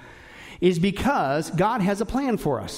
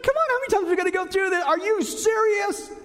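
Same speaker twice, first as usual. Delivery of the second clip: exasperated disbelief; 11 semitones higher than usual. Retold or imitated. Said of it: "I was like".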